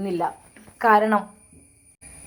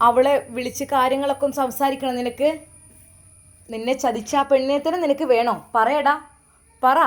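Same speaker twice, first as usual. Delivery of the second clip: louder, higher, pressing him hard; angry demand; 4 semitones higher, 4 dB louder than usual. Acted. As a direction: demand an answer, building to പറയടാ. Mother confronts son angrily. (ദേഷ്യത്തോടെ ഉമ്മ മകനോട് ചോദിക്കുന്നു)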